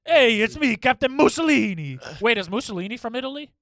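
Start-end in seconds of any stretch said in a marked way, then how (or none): 0.0-2.0 announcer voice. Pretend. Playful character introduction.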